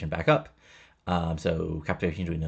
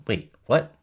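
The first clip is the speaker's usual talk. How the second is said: shocked; 4 semitones higher, 6 dB louder than usual. Retold or imitated. Hears the Fallen Angel opponent.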